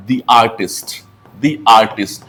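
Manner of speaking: "the artist" with "the" said as a long "dee" before the vowel; pronounced "dee". Shown as a demonstration. Teacher showing students "the" as "dee" before artist. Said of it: "आपने देखा होगा यहाँ मैंने क्या बोला".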